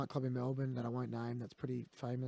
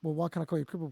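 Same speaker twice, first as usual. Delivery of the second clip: mocking quote; 4 semitones higher, 5 dB louder, much faster than usual. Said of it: "people go to me".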